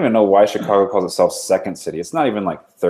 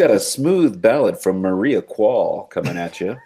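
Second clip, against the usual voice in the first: smooth radio DJ. Pretend. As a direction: lay it on like a late-night DJ. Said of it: "radio D J".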